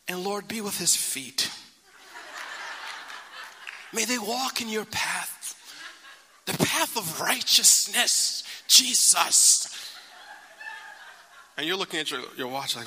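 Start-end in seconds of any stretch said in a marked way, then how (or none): 0.1-9.7 slow, drawn-out mock prayer, a touch of laughter; mother's long prayer. Mother praying over departing son, mock drawn-out prayer. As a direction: stretch the blessing out like a devout mom. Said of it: "one of those moms who's like".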